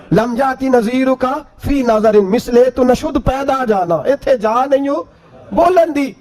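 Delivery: slow, stretched Punjabi verse; verse recitation. Acted. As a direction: draw out each phrase of the devotional poem. Preacher recites Punjabi praise verse.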